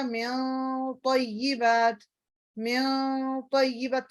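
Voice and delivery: من طیبات with a heavy, hidden nasal n; heavy ikhfa demo. Shown as a demonstration. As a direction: say من طیبات slowly, the n hidden and full. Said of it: "اخفا بھی تھوڑا سا heavy".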